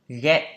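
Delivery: "get" said without any s before the t; "get" with a plain final t; no S sound. Shown as a demonstration. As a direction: clearly model "get", ending straight on t. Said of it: "không có S".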